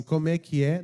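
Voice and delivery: mock rude snap of a question; rude reply. Preacher mocks the wrong answer, rude tone. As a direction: play the disrespectful way of answering. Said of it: "Ela não fala assim".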